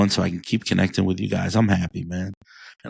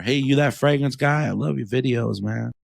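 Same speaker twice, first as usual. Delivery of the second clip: excited fan; 5 semitones higher than usual. Retold or imitated. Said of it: "they come up to me and say".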